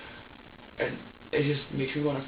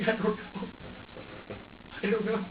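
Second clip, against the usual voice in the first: tearful; 4 semitones higher than usual. Real, not acted. Distressed, unsure if they hurt him.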